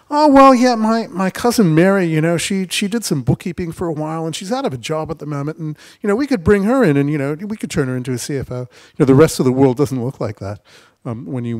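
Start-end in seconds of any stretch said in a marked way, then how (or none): 0.1-8.6 high, louder broad Kiwi voice; Kiwi accent. Retold or imitated. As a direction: play the naive local founder, higher. Imitating naive founder, cousin Mary.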